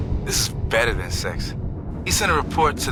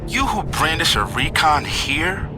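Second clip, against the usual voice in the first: sarcastic accusation; 5 semitones higher than usual. Acted. Sarcastically accusing partner of being spy.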